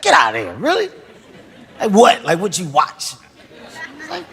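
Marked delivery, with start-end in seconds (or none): 0.0-3.1 squeaky, laughing disbelief, the pitch jumping about; mock disbelief. Retelling how he reacted to the friend, in laughing mock disbelief. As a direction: get out of here, really, half laughing in disbelief. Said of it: "I was like".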